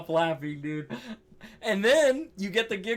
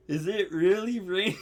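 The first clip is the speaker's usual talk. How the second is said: retold through laughter. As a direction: quote dissolving into laughter. Quoting friend again, cracks up.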